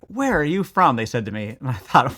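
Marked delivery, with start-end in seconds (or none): 0.1-0.9 lightly voiced boys' casual question; a plain, friendly ask from the kids; boys asking. Teen boys in Rome ask the American where she's from, casually. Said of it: "just like".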